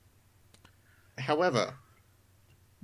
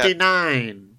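robot countdown voice; 4 semitones higher, 4 dB louder than usual. Acted.

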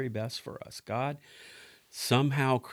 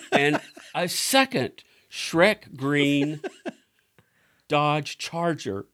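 laughing; 5 semitones higher, 6 dB louder, much slower than usual. Real, not acted. Laughing through the punchline.

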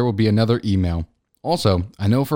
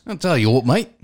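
mock Aussie accent; 4 semitones higher than usual. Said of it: "we're mixing a lot of countries here".

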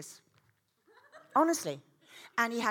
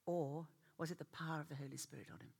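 whisper; 4 semitones lower, 7 dB quieter than usual. Acted. Rhetorical hushed question.

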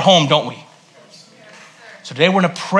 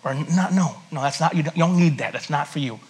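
God answering; 3 semitones lower, 6 dB quieter than usual. Retold or imitated. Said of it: "He'll say".

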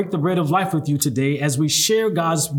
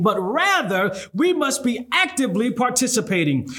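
rising preacher's cadence, higher; preaching at full force; 3 semitones higher than usual. Acted. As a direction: build it up like a revival sermon. Preaching building to a call.

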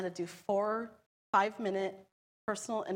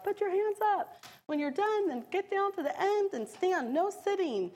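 barking orders; 11 semitones higher, 4 dB louder than usual. Retold or imitated. Officers ordering passengers.

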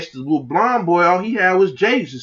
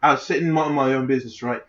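casual mock-British bloke; lightly put-on British; terrible British accent. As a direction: attempt a British accent, loosely. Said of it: "this terrible accent".

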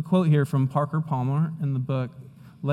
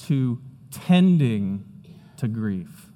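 slow, drawn out tending; stress on tending; 3 semitones lower, slower than usual. Shown as a demonstration. Pastor stressing the key word tending for the series takeaway. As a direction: lean slowly on the word tending. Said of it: "here's what I want you to see".

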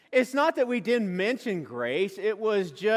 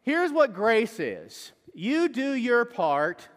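mock preacher; 4 semitones higher, slower than usual. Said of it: "He goes".

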